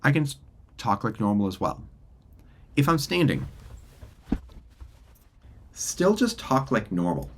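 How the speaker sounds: thinner, distant laptop-mic sound; plain voice heard through a laptop mic, set against the studio mic. Shown as a demonstration. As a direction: talk into the built-in computer microphone. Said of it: "switch my audio to just my computer".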